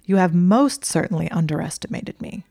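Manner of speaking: mild barely held fury; seething. Acted. Hermione scolding Draco for lying, seething. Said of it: "she was seething".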